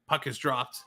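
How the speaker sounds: brisk hockey commentary from the face-off; hockey announcer admiring the play; live play-by-play. Acted. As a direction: call the face-off and the play as it happens.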